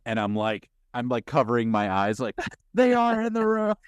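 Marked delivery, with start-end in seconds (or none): 2.7-3.7 high, loud panicked squeal; hammed-up little-kid fright; mock terrified kid. Child covering eyes at Jurassic Park, mock terror. Scared child voiced in story.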